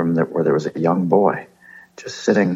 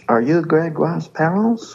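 higher, slow mock French accent; 9 semitones higher than usual. Asking the French parents about Gregoire, mock accent. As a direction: ask the parents in a hammed-up French lilt. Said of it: "in French".

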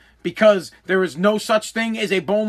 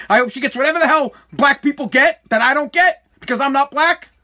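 building rant; 4 semitones higher than usual. Real, not acted.

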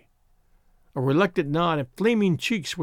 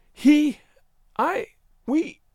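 high, halting false starts; floundering; 11 semitones higher, 3 dB louder, much slower than usual. A narrator's reading. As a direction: start and stop, lost for words.

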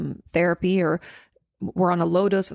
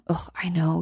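whispered aside. Real, not acted. Sympathising aside while reading viewer's question.

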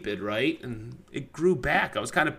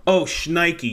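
mock pained yelp; 4 semitones higher, 4 dB louder than usual. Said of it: "what's your reaction?".

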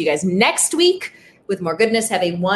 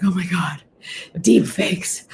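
mock panic; slower than usual. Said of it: "Like, dial it back".

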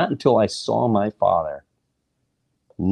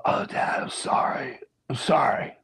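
soft, breath-heavy sorry, pitched up; hushed apology; 5 semitones higher, 5 dB quieter than usual. Retold or imitated. Drunk son caught by Dad at night, hushed apology. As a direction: apologize in an urgent half-whisper.

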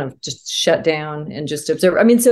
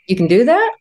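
higher, mildly amazed question; retold child's disbelief; 5 semitones higher than usual. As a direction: lift it in a child's puzzled wonder. Child amazed mother may quit.

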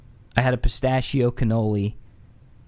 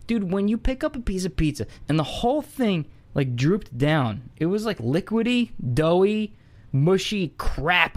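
disgusted; 6 semitones higher than usual. Real, not acted. Disgusted rant about soggy pizza.

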